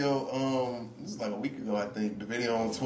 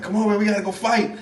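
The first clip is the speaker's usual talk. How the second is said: higher, lightly acted summons; urgent dad; 6 semitones higher than usual. Daddy walking in to recruit son, mock urgent. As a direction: hustle the son along, playfully. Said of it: "his daddy walked in".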